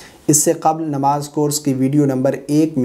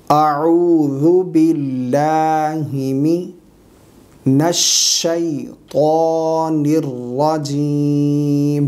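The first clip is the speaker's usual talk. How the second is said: very slow Quranic recitation with long-held vowels; correct recitation; much slower than usual. Shown as a demonstration. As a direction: recite it syllable by syllable, drawing out every long vowel. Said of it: "صحیح تلفظات کے ساتھ پڑھ کر سکھائیں گے".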